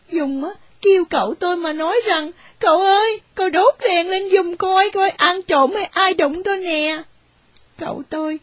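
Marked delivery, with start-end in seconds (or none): 2.6-7.0 calling out in the dark, rising and urgent; startled plea to the uncle; frightened call. Acted. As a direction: call for help, alarmed.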